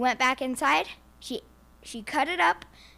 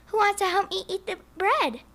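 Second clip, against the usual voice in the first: higher, bright little hen calling out; the little red hen invites the animals, higher; cheery hen voice; 8 semitones higher, 3 dB louder than usual. Acted. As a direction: sing it out like a proud hen. Hen asks the farm animals.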